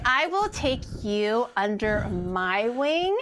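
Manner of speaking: slow, mock-serious promise; mock solemn. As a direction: say it with a straight face. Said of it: "I can't even hold a straight face when I say that".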